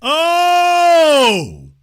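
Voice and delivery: a loud high oh of surprise; surprised exclamation. Real, not acted. Reacting to the chat with a loud surprised oh. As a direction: blurt it out, caught off guard.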